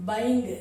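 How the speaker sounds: பைங் ending on a g without its vowel; clipped final g. Shown as a demonstration. Teacher showing the reduced sound, clipped final g. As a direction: stop பைங் before any full "ga". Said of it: "கன்னு full sound கொடுக்காம".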